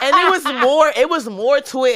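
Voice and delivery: loud, high, still cracking up; laughing. Real, not acted. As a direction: push the words out through laughter. Still cracking up after rap.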